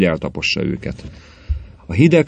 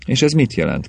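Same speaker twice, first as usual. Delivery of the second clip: higher-pitched eager question; excitedly; 7 semitones higher than usual. A narrator's reading. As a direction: ask it keyed up, can't wait for the answer. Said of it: "kérdezte Ripko úr izgatottan". (izgatottan, magasabb hangon kérdezve)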